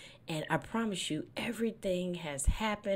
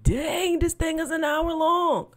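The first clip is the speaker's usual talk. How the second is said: bored listener; 13 semitones higher, 9 dB louder than usual. Retold or imitated. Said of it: "y'all to be like".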